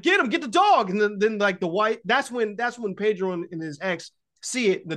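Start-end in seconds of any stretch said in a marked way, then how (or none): 0.0-0.9 much higher, louder frantic command; imitated yell. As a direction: bark the order as if chasing the dog. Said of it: "He's like".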